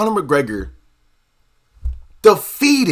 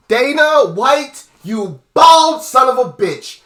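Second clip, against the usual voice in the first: raised, drawn-out angry jab at Dana; angry insult; 4 semitones higher, 3 dB louder, slower than usual. Real, not acted. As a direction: spit out the insult, slowly and heated. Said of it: "I'm really mad".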